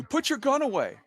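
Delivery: high-pitched imitation of a barked order; imitated yelling. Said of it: "the guard starts yelling at you".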